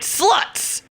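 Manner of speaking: whispered mock scold; mock judgmental mutter. Retelling a skit, the former Mormon's conditioned, whispered insult. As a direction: hiss it like a prim church lady. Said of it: "And then she's like".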